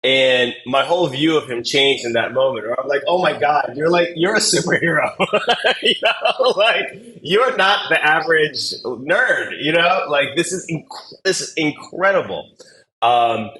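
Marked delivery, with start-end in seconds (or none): 3.1-12.5 high, loud, gushing excitement with a laugh; amazed. Retold or imitated. Coach recalling his awe at a deaf applicant's achievements, amazed. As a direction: marvel at them, voice jumping right up.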